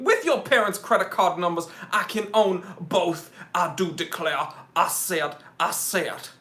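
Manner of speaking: lightly voiced Southern rooster; mock Southern declaring, understated; Foghorn Leghorn. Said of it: "like, a foghorn leghorn".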